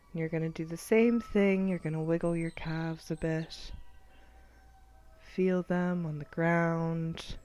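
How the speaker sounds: measured body-scan guidance, long pauses; guided meditation. Acted. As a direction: count them through tensing and releasing.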